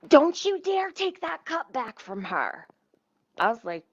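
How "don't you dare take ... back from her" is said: slow, higher, bossy mock warning; lightly voiced bossy coworker scolding, drawn out; mimicking the worker. Retelling a drive-thru worker scolding her, higher and drawn out. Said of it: "the Jamaican bitch, she's like".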